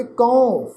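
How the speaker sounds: ਕਉ drawn out as a nasal "kaun"-like glide; nasalised ਕਉ. Shown as a demonstration. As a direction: glide ਕਉ from "a" to "u" through the nose. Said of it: "ਟਿੱਪੀ ਦੀ ਮਾਤਰਾ ਊੜੇ ਨੂੰ ਔਂਕੜ".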